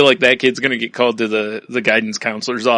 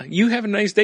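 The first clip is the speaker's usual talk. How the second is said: mock sweet menace; 8 semitones higher than usual. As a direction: smile it like a threat. Mock polite after threat.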